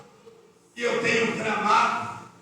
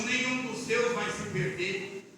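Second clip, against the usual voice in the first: softer, slow delivery; subdued quoted promise; 2 semitones lower, 5 dB quieter than usual. Retold or imitated. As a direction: relay God's promise softly. First take of a repeated promise.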